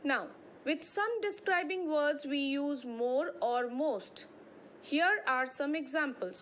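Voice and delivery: slow, deliberate reading of the rule; measured classroom read-aloud; textbook reading. Acted. Reads textbook heading aloud.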